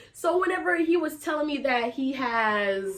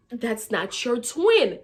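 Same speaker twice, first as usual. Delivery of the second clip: very slow, stretched words; drawn-out correction; 4 dB louder, slower than usual. Retold or imitated. Teller sets him straight about his twin, drawn-out correction. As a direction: spell it out slowly, word by word.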